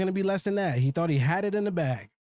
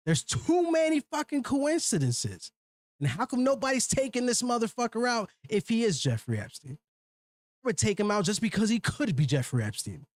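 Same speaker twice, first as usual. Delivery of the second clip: getting mad; 5 semitones higher than usual. Real, not acted. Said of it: "I'm getting mad".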